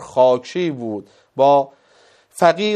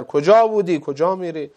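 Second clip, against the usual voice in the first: mildly raised, higher retold question; louder repeated question; 3 semitones higher than usual. Questioner repeats himself to an unresponsive old man, louder voice. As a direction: ask it louder for someone not answering. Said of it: "با صدای بلندتر".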